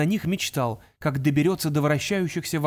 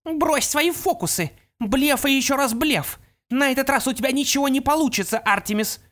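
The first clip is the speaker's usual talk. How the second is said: sneering; 10 semitones higher than usual. Acted. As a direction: scoff at his tricks. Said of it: "Опал усмехнулась".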